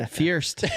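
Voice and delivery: "first" said as "feerst", with laughter; amused "feerst" for "first"; repeated slip. Real, not acted. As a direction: echo the botched "first" with an ee sound. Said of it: "I can't speak today".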